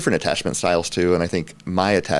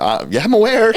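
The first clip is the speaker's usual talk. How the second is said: much higher and louder, laughing; wife mocking him, high and laughing; dry sarcasm; 7 dB louder than usual. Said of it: "And she's like".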